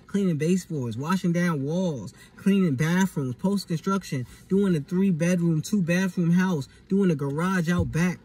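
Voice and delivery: exasperated listing of chores; heated rant. Real, not acted. Ranting list of chores.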